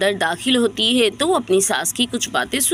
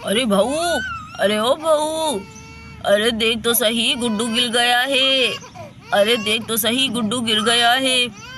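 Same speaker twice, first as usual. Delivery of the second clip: calling across the house, raised voice; 2 semitones higher than usual. Acted. Mother-in-law calling out to bahu. (बहू को पुकारती सास, ऊँची आवाज़)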